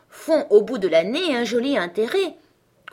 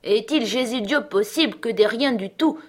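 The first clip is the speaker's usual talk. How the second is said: mock tender outcry; 3 semitones higher, 4 dB louder than usual. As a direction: play falsely moved servant, hammering des rats. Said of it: "d'un air attendri, la tête sur le côté, s'écria".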